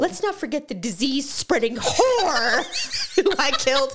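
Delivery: slow, chilling villain speech with laughs; Seven killer voice. Pretend. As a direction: play the self-righteous serial killer. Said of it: "the character that Kevin Spacey played".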